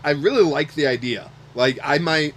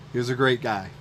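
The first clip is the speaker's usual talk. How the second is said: emotional. Real, not acted. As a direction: hold back tears while talking about him. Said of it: "I'm gonna get a little emotional".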